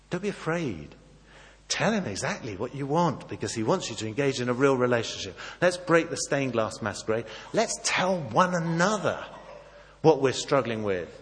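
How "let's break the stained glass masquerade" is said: ordinary talk, nothing marked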